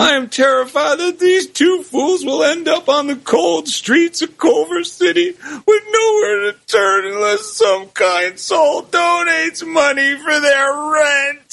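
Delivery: pleading, voice cracking with emotion; choked-up plea for two poor souls; voice breaking with emotion. Acted. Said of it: "he said in a voice breaking with emotion".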